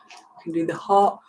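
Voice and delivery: talking through a yawn; words stretched by a yawn. Real, not acted. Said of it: "Sorry, yawning away".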